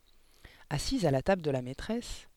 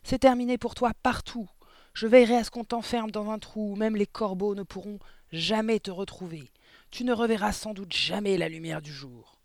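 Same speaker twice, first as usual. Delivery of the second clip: raised, furious tirade; high, loud, easing slightly at the end; shouted threats; 5 semitones higher, 5 dB louder than usual. A narrator's reading. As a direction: threaten with mounting outrage. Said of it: "hurla-t-elle".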